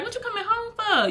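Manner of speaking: retold high-pitched protest; incredulous question. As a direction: push it way up in disbelief. Objects to partner coming home early.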